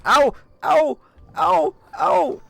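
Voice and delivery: high, loud ow cries; pained yelps. Real, not acted. Streamer taking hits in game, yelping ow. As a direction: yelp with each hit.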